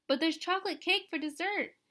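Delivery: put-on high, eager young child's voice; little girl's voice. A narrator's reading. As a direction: remind her sweetly like a small kid. Little Caroline reminds her sister.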